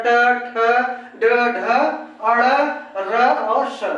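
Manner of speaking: ट, ठ, ड, ढ, अड़ one by one, tongue curled back; deliberate ट, ठ, ड, ढ with curled tongue tip; retroflex consonant demo. Shown as a demonstration. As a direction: sound out each retroflex from ट to स separately. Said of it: "मूर्धा टकरा रहा".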